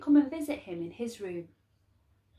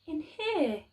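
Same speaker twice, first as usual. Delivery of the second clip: Laszlo asking; 6 semitones higher than usual. Acted. Boy Laszlo asks the dark.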